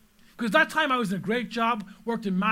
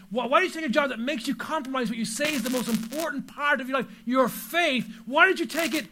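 building challenge; 2 semitones higher than usual. Real, not acted. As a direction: hammer each why harder than the last. Preacher's rhetorical questions to the congregation.

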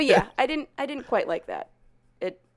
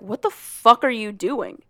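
alarmed yell; 8 dB louder, slower than usual. Retold or imitated. Retelling Addison yelling at him to stop. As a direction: voice climbing to a loud shouted stop.

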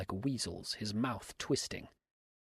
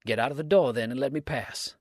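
louder, an angry cry; cried out; 3 semitones higher, 7 dB louder than usual. A narrator's reading. Dix demands Abner leave the door, loud cry. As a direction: order him from the door, loudly. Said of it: "cried Dix".

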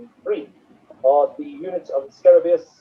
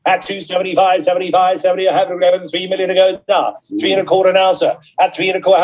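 auction bid spotter; 2 semitones higher than usual. Real, not acted. Auctioneer calling bids live.

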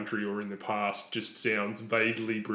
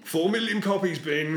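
incredulous; 8 semitones higher, 5 dB louder than usual. Real, not acted. Mock outrage at song sales.

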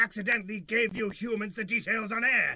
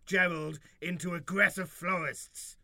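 pompous alien leader voice; alien overlord; 3 semitones lower than usual. Acted. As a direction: proclaim like a grand alien ruler.

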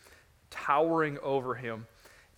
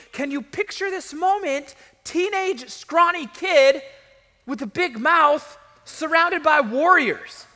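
high, loud, driving storytelling; impassioned preaching; 11 semitones higher, 8 dB louder than usual. Real, not acted. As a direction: preach the story at full force, voice raised. Preaches the scene at full force.

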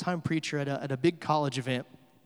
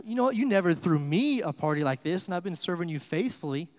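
indignant retold complaint; mad older brother; 2 semitones higher, 3 dB louder than usual. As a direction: act out a mildly angry brother protesting. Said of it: "The older brother gets mad".

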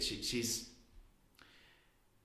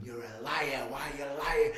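higher-pitched retold accusation, not truly loud; mild mock scream; 5 semitones higher, 4 dB louder than usual. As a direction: imitate her screaming, held back in volume. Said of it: "Screaming in my face".

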